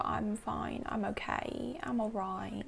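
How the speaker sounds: mock-drunk, words loosely run together; slurred drunk. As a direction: play a drunk Brit mumbling reassurances, lightly. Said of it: "you're slurring your words".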